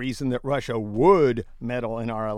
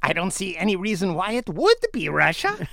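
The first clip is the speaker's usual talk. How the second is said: would leaned on and lifted; mocking stress on "would"; 3 semitones higher than usual. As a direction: punch the word "would" in the sentence. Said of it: "Emphasis on the would".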